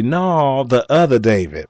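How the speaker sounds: imitated Kentucky customer accent; lightly put-on Kentucky twang, doubting the listener; retold Kentucky hillbilly objection; mock Kentucky hillbilly. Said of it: "Kentucky hickabilly slang".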